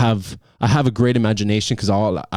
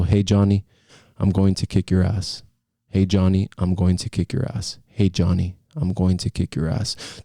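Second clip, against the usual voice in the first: relaxed robot read; 3 semitones lower than usual. Shown as a demonstration. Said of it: "read it as relaxed as possible".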